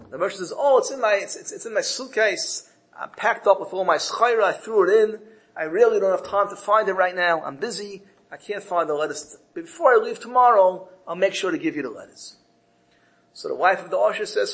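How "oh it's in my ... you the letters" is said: mildly hurried excuses, pitched up; flustered brush-off. Acted. Merchant putting off two wives who want their letters, flustered. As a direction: put them off with busy excuses.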